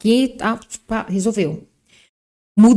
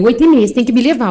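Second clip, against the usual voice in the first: loud, fast hurry-up demand; urgent demand; 6 dB louder, much faster than usual. Retold or imitated. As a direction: push him to leave now. Friend urging, retold.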